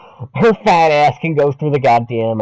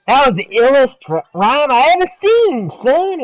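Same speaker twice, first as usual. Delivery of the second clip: stoner voice; 11 semitones higher than usual. Retold or imitated. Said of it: "quoting Shorty".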